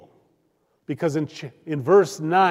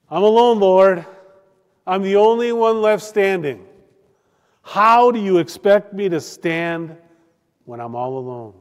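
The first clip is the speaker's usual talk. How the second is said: raised, louder, pleading cry to the Lord; Elijah's lament; 4 semitones higher, 5 dB louder than usual. Acted. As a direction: call out to God, feeling abandoned. Elijah voiced crying to God.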